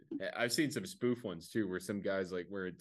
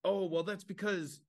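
fake soldier excuse; 8 semitones higher than usual. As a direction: sell the lie in a raised voice. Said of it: "And he's like".

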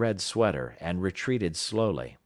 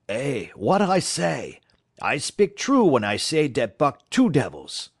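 French-Canadian driver; 5 semitones higher, 5 dB louder than usual. Acted. Francois marvelling at Buck, in a French-Canadian accent. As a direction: play Francois the French-Canadian bragging about his dog. Francois boasts next morning.

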